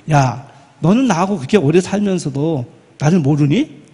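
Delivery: a hammed-up telling-off; scolding. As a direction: pretend to tell him off. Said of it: "라고 야단치지 않았어요".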